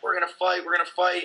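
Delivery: retold freak-out. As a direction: imitate a worked-up guy without raising the volume. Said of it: "One guy's freaking out".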